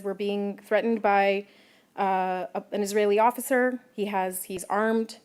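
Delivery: slow, even retelling of a calm reporter; lightly voiced calm reporter under threat. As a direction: relay the threat slowly and steadily. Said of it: "calmly goes back to his stand-up".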